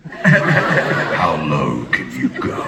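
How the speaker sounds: low, drawn-out taunt; low slow taunt. Retold or imitated. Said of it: "You just see Bob go".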